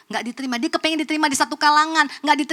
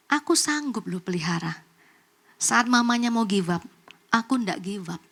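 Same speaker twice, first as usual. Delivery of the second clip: God's quiet assurance; 2 semitones lower, 3 dB quieter than usual. Retold or imitated. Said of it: "Tuhan tuh ngomong begini".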